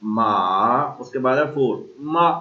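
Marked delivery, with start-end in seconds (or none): 0.0-1.0 मा dipping low then rising; third tone ma. Shown as a demonstration. Teacher repeating the dipping third tone. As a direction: dip मा down and up. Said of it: "third मा".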